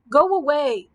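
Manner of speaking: high, loud scream. A narrator's reading. Frightened giant chasing off Dorothy, screaming. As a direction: shriek it to drive them off. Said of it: "screamed the giant".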